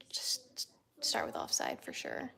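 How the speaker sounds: unvoiced whispered advice; whispering. Real, not acted. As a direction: whisper the recommendation. Repeats the advice, second time whispered.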